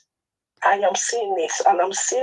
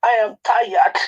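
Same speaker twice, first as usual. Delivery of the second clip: crying; 3 dB louder, slower than usual. Real, not acted. Caller breaking down.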